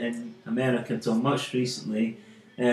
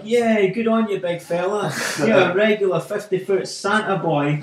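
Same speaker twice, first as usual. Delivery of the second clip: cheering pensioners; 5 semitones higher, 4 dB louder than usual. Retold or imitated.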